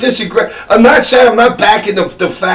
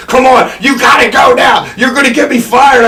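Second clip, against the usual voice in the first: urgent yelling; 4 semitones higher than usual. Retold or imitated. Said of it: "Finnegan's like".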